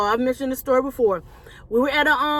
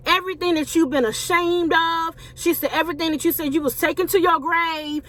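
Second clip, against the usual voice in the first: raised, sustained prophetess delivery; retold prophecy, pitched up; prophesying; 4 semitones higher than usual. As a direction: voice a prophetess declaring a word, higher in pitch. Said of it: "she's prophesying to me".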